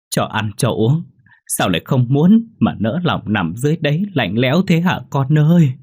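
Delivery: high, loud grieving wail for a drowned son; a mother's keening, pitched high and loud; wailing lament. Acted. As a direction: cry out over the body, voice breaking. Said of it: "Tiếng khóc của mọi người".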